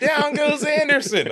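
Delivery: high, drawn-out commentator call; shouting announcer. Retold or imitated. Podcaster mimicking announcer calling a baseball brawl, mock shouting. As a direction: imitate an announcer's excited knockdown call, stretched high.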